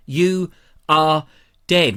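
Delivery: a touch of horror-film menace; menacing note voice. Pretend. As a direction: read it like a poison-pen threat. Imagined anonymous threatening note.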